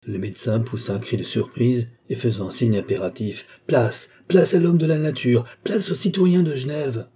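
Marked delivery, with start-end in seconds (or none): 3.7-7.1 high, loud ceremonial call; loud proclamation. A narrator's reading. Doctor honouring Rousseau before the crowd, proclaiming. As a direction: call out to clear the way.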